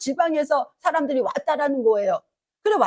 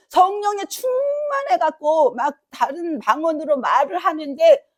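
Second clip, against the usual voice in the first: raised voice, pressing the point hard; preaching shout; 3 semitones higher than usual. Real, not acted. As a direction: drive it home like a revival preacher. (설교하듯 힘차게 외치며)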